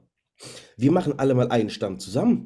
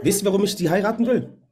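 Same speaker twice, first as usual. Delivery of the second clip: laughing; 8 semitones higher, 4 dB louder than usual. Real, not acted. Girlfriend serves egg-white crepe.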